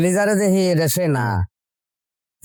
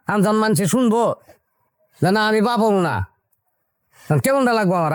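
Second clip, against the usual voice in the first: agitated, raised-pitch complaint; indignant scolding; 3 semitones higher than usual. Acted. Husband to wife over her fake pregnancy lie, indignant scolding. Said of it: "তুমি এরম করে কথা কইতাছো কেন".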